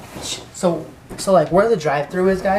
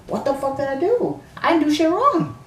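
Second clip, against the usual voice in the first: furious protest; 12 semitones higher than usual. Retold or imitated. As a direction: yell your innocence at the worker. Escalating argument, repeat louder.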